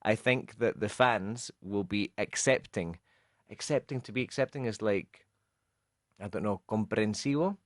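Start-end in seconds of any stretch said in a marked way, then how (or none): 0.0-3.0 slow quoted line. Retold or imitated. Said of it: "he said".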